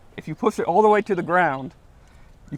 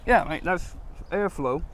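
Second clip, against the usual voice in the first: fake British accent; 3 dB quieter, slower than usual. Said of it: "your best British accent".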